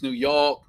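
New York with the R dropped, "Noo Yawk"; local New York pronunciation. Shown as a demonstration. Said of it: "not New York".

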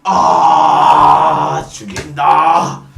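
very low, long growled sigh of relish; relishing customer. Acted. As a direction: drag it out deep and loud after a drink. Customer savouring a drink.

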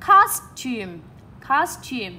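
teacher's model of costume, first syllable stressed. Shown as a demonstration. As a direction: hit COS in costume, let -tume drop. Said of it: "trọng âm của chúng mình đang đánh vào số một".

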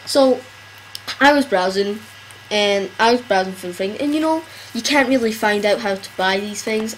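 talking with a pencil in mouth; words round a pencil held in teeth. Real, not acted. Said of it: "I'm just gonna leave the pen, the rare pencil in my mouth".

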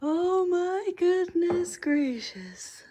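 slow, high, drawn-out loud whisper; whispered exclamation. Real, not acted. Reacting to the mess of books, whispered exclamation. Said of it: "So I'm whispering".

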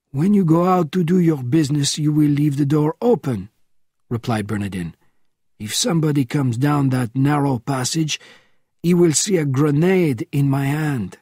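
a hint of a weary old spy at four in the morning; old man roused from sleep, a touch testy; elderly Bernardin, woken. Bernardin giving instructions.

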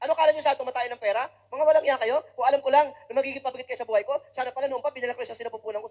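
mother's over-the-top rant about money. Retold or imitated. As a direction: berate the kids as a burden. Mother rants over twenty pesos.

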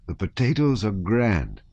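lilting, contented peasant voice; kindly peasant soldier. Acted. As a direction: praise simple food with homely relish. Soldier praising his potatoes again.

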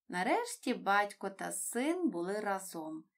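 plain reading voice

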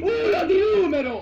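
raging meltdown. Real, not acted. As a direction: scream at the game in pure rage. Gamer meltdown after death.

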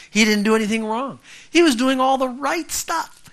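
high, loud insistence; indignant emphasis; emphatic preaching. Real, not acted. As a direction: drive the point home. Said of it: "emphatic preaching".

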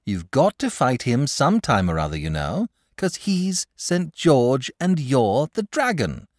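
put-on earnest pleading boy; imploring. A narrator's reading. Boy pleading with the dragon to fight. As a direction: urge him, half begging. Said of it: "said the boy imploringly".

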